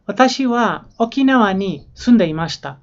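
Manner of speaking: normal talking voice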